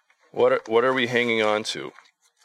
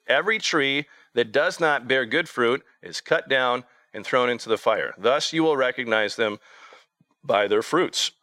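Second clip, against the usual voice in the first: higher, measured reading of scripture; 3 semitones higher than usual. Acted. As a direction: read the verses out solemnly to the congregation.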